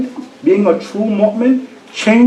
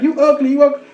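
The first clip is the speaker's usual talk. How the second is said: higher mock parrot screech; mild mock parrot scream; 7 semitones higher, faster than usual. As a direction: squawk the insult twice. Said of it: "the parrot screaming at her".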